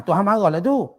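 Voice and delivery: mildly taunting, stated as a verdict; scornful insult. Acted. Ummu Jamilah belittling the Prophet, mildly scornful. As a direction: say it as a light jibe. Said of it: "Kan dia berbeza intonasi dia".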